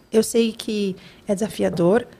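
devagar no início, cada vez mais baixo e grave; consolo sereno. Retold or imitated. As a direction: acalme com voz mansa. Consola mãe desregulada, passando a mão. (acolhedor e tranquilo)

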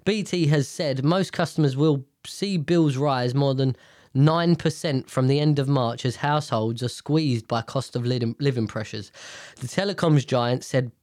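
blocked nose from sinus infection; nasal, stuffed-up voice. Real, not acted. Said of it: "I'm really sorry about the nasalness".

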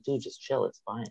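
imitating a laid-back, soft brush-off; dismissive chill. Friend waving off host's plea to leave, dismissive.

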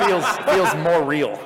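laughing. Real, not acted. Jokes about hand gestures.

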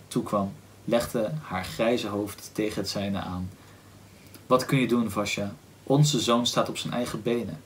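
measured, understated reading aloud; story narration. A narrator's reading. Reading listeners the parents' grief after Bazarov leaves, understated story narration. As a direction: read the novel passage evenly and with restraint. Reads novel fragment aloud.

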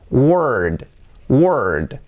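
"word" as "wurd", falling, ending in d; added D. Shown as a demonstration. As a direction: say "word" as were plus a voiced d. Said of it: "vamos a añadir una D". ("word" como were más una D final)

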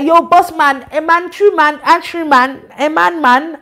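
loud street slang greeting, lightly voiced; imitating roadman friend. Pastor mimicking a friend's street talk, mock roadman voice. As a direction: hype it up like a roadman hailing the boss. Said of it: "He's like".

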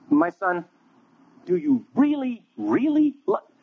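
high, slow, rising plea; pressing Jesus. Acted.

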